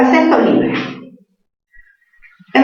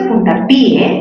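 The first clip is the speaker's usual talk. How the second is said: puntapié split as punta-PÍ-e; stress on I; slower than usual. Shown as a demonstration. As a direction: break puntapié into a hiatus with stressed i. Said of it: "habría un hiato acentual". (puntapié con hiato, fuerza en la Í)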